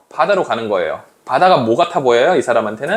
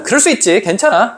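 acted easygoing reassurance; lightly voiced, higher forgiveness; forgiving a friend; 5 semitones higher than usual. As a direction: tell a friend it is fine. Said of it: "친구들은".

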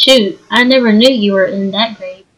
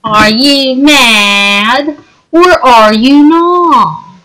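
slow taunting; much slower than usual. Acted. Drawn-out taunt.

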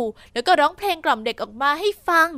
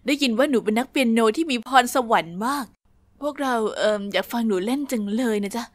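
lower-voiced posh guest; 5 semitones lower than usual. Posh couple asks girl.

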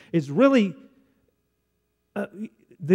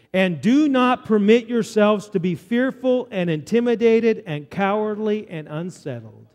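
slow, deliberate list, falling at the end; Scripture reading; 3 semitones higher than usual. Acted. Preacher reads the rest of the verse aloud, slow deliberate Scripture reading. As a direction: read it out slowly, leaning on each word.

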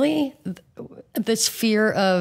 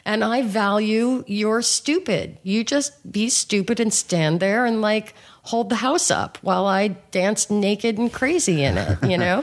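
crazy woman voice; 7 semitones higher than usual. Pretend. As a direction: playfully boss him around.

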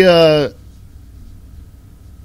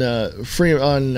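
ordinary talk, nothing marked

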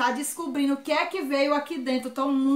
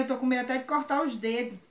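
nervous laugh; 4 dB quieter, faster than usual. Real, not acted. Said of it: "Eu tô tremendo".

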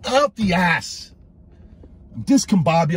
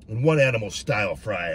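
ordinary delivery

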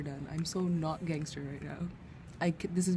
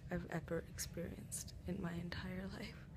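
pained whisper; 15 dB quieter than usual. Real, not acted. Whispering after painful removal.

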